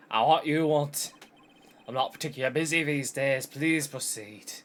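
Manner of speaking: wobbly put-on Scottish accent; devolved Scottish. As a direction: play an old lawyer with shaky Scottish. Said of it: "I think I've devolved Scottish".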